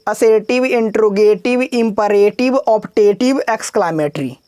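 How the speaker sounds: gentle, fond recital of the list; lovingly. Shown as a demonstration. Teacher reciting terms to students, gently and lovingly. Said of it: "पहले प्यार से बोलो".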